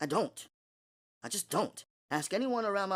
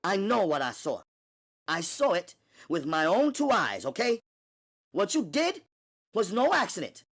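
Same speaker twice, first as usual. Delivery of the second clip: much higher and louder, insistent; demanding Natalie; 5 dB louder, faster than usual. Acted. Natalie to Gina, demanding loudly. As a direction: demand the truth now.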